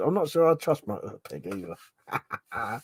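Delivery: reading it while laughing; giggling through the line; chuckling as he rereads the joke. Real, not acted. Rereads chat message while laughing.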